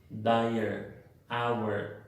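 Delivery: "dire" as dai-er, "hour" as au-er; two-syllable words. Shown as a demonstration. Teacher showing two syllables, "dire" and "hour" with audible schwa. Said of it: "estas palabras tienen dos sílabas".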